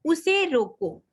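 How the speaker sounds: उसे रोको said slowly, then a clear break; उसे रोको as a firm standalone command; pause after रोको. Shown as a demonstration. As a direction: stop after रोको before going on. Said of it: "फिर हमें थोड़ा सा रुकना है".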